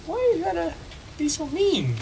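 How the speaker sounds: high-pitched playful complaint; mock whining. Player locked out of a building, mock whining. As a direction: plead in a squeaky whine.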